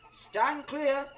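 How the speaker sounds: high, loud, laughing; gleeful warning. A narrator's reading. Husband warning family with delight. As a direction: call it out with glee. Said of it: "Mister Cranky said".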